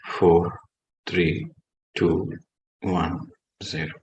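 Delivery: soft, low meditation voice with long pauses; guided meditation. Real, not acted. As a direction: bring them gently out of meditation.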